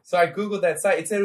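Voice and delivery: distant, off-mic voice; lying down away from the microphone; far from mic. Real, not acted. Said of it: "I'm gonna get far away from the mic 'cause I'm laying down".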